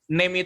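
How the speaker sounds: NAME said as "nem", with a short plain e; wrong vowel. Shown as a demonstration. Teacher warns learners off a misreading, "name" said as flat-vowelled "nem". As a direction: say "name" without the glide, like "nem". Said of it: "bacanya bukan name".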